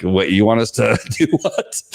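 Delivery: laughing incredulous cops; amused disbelief. Retold or imitated. Police baffled at being called in, laughing disbelief. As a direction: chuckle it out, baffled. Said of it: "they're standing there like".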